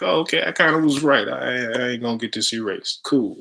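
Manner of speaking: Oh, okay, I kinda was right, like a happy surprise; pleased realization. Retold or imitated. Recalling relief that his tattoo was right, high and pleased. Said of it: "So I'm like".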